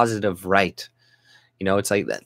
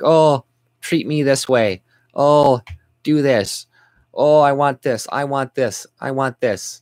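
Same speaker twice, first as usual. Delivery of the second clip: higher, slower whiny mock demands; mocking a demander; 4 semitones higher, 3 dB louder than usual. Mocking newcomers who demand things, whiny mock voice. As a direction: sneer out each demand. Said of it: "it's like".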